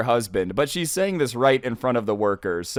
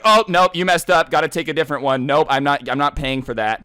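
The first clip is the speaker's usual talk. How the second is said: rejecting customer; 3 semitones higher, 5 dB louder than usual. Retold or imitated. Customers rejecting the worker's yogurt, mock fussy refusal. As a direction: cut in with an imitated picky refusal. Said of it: "they're like".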